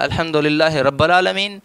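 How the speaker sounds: "رب" repeated as "rabba", an a-vowel for the i; deliberate vowel slip. Retold or imitated. Debater repeating his misreading to the laughing crowd, "رب" as "rabba". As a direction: say "رب العالمین" as "rabbal aalameen", not "rabbil". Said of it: "میں نے غلط پڑھا کیا".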